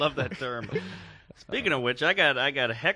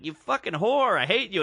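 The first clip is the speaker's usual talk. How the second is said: higher, worked-up insult; retold fuming anger; 5 semitones higher, 3 dB louder than usual. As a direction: act out losing your temper at a heckler. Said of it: "I was so angry".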